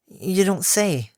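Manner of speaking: slow, dry sarcasm; mock surprise, drawn out; sarcastic.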